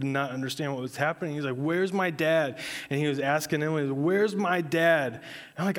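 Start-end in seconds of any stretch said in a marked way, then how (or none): 1.6-2.6 put-on upset toddler. Toddler asking again, upset. 3.9-5.1 put-on upset toddler. Toddler asking his mother.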